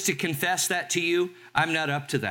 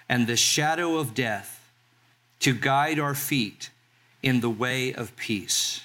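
scripture reading. Acted. Pastor reads scripture aloud.

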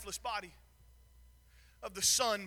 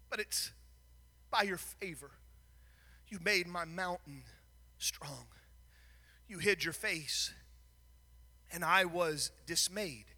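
much softer, lower, near a whisper on strong; hushed humbled prayer; 6 semitones lower, 8 dB quieter than usual. Acted. David confessing to God, hushed and low. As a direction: breathe it out in awe.

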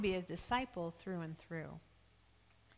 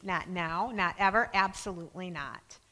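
emphatic refusal. Retold or imitated. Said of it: "refuses Jesus in the strongest language possible".

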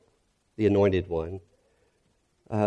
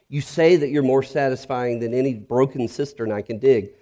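raised, earnest plea; a higher, troubled confession; pleading prayer; 4 semitones higher than usual. Retold or imitated. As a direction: beg God to change his heart. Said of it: "Or this one".

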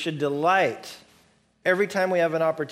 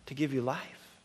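gentle voice; 4 dB quieter than usual. Acted. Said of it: "this other voice over here that says".

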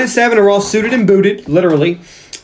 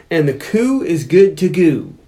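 mock grand line; slower than usual. Shown as a demonstration. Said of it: "is what I wrote".

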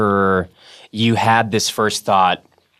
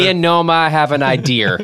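Boston accent; 4 semitones higher than usual. Shown as a demonstration. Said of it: "you put R's in weird places".

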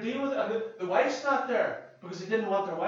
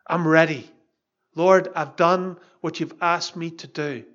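fervent declaration; 2 semitones lower, 7 dB louder than usual. Acted. Paul voiced declaring readiness.

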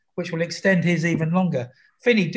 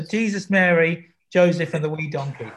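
Northern Irish accent. Shown as a demonstration. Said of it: "it's in Northern Irish".

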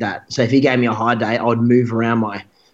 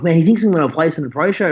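a touch higher, mildly excited quote; retold freak-out; 5 semitones higher than usual. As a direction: relay your own amazed panic, lightly. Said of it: "like, freaking out".

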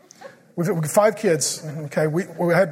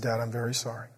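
much softer, lower, tender; quiet child's apology; 8 semitones lower, 11 dB quieter than usual. Retold or imitated. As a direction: say it like a sorry little child. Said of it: "and said".

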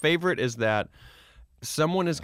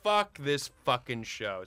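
mock frustration; 4 semitones higher, slower than usual. Fake rage at the show.

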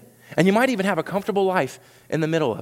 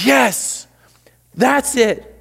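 a touch of whisper; 9 semitones higher, 6 dB louder, much slower than usual. Acted. Jesus voiced whispering.

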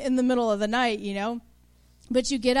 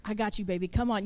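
put-on softer, soothing words to a scared child; tender mama; 4 semitones lower, 5 dB quieter, faster than usual. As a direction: coax your little one gently. Parent comforting a scared kid.

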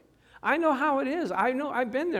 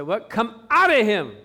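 astonished; 4 semitones higher, 10 dB louder than usual. Retold or imitated. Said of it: "He said".

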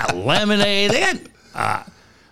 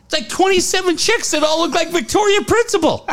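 laughing disbelief; 14 semitones higher than usual. Real, not acted. Shocked by old chicks on show.

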